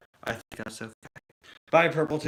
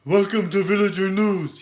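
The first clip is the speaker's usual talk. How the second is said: higher nasal villager voice; Minecraft villager voice; 7 semitones higher, 5 dB louder than usual. Retold or imitated. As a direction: villager impression. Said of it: "I could do them from Villager News".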